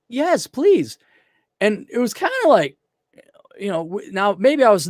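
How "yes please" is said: put-on high, light Russian accent; a hint of a Russian girl. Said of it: "and she had an accent".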